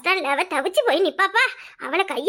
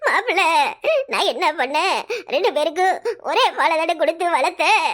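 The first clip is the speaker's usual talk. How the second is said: slow lament; 2 semitones lower, slower than usual. Acted. Mother laments ungrateful son.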